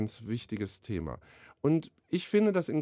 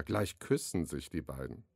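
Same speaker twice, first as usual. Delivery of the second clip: a hushed, voiced stage whisper, not really breathy; mock whisper; 9 semitones lower, 7 dB quieter than usual. A narrator's reading. Dad hushes his daughter while watching the beaver, soft voiced whisper. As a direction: lean in and hush it so the beaver isn't startled. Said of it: "flüsterte Papa".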